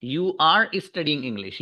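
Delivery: slow, word-by-word "Are you studying English?" while writing on the board; slow dictation. Shown as a demonstration. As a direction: dictate each word slowly for the class. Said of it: "ये असल है". (बोर्ड पर लिखते हुए धीरे-धीरे बोलना)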